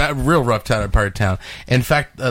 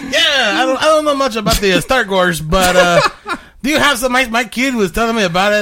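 put-on Hispanic accent; 8 semitones higher than usual. Prank caller to toy store in light Hispanic accent. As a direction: play a confused dad with a Hispanic accent. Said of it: "very Hispanic name".

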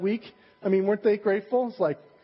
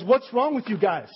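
mildly raised, scolding coach; a coach in the locker room, a touch of anger; coach chewing out the team. Retold or imitated. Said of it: "the coach pulls everyone into the dressing room and says".

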